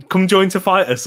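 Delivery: "come join to fight us" as separate words mimicking conjunctivitis; "come join to fight us" as a Geordie-sounding conjunctivitis; sound-alike demo. Shown as a demonstration. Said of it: "It sounds like".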